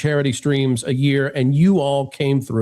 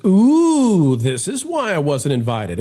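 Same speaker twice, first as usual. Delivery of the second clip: Wilton the Troll voice; 2 semitones higher, much slower than usual. Retold or imitated. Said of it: "in a far more nasally and lispy way".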